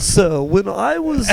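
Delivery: a hesitant mock British accent. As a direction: try a British accent and fail. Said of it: "but in a British accent?".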